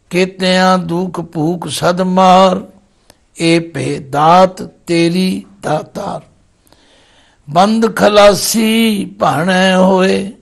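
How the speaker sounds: slow, drawn-out verse recitation; scripture recitation. Acted. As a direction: recite the sacred verse, stretching each word. (ਗੁਰਬਾਣੀ ਦਾ ਧੀਮਾ ਪਾਠ)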